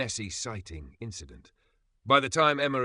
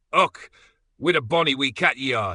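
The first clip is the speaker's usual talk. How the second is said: put-on high, louder cooing in a thick Scottish accent; 5 semitones higher, 9 dB louder than usual. A narrator's reading. Kilted man admiring the cat, cooing in a Scottish accent. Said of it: "he cooed in a thick Scottish accent".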